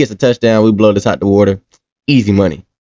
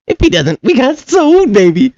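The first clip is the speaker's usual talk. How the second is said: hyped-up yell; 11 semitones higher than usual. Real, not acted. Hyping his picks.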